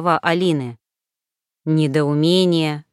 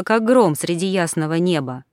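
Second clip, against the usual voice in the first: ordinary delivery, nothing marked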